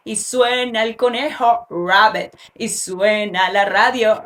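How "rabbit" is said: "rabbit" with a clear English R at the start; initial R. Shown as a demonstration. Teacher showing learners a sounded R in "rabbit". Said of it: "el monstruo se despierta y hace mucho ruido".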